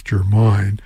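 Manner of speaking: Germain offered as a first guess; tentative pronunciation. Real, not acted. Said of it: "not sure how to pronounce".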